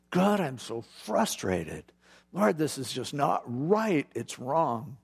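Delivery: mildly exasperated prayer, drawn out at first; upset, frustrated. Acted. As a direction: act out a touch of frustration, venting to God. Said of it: "being upset with people".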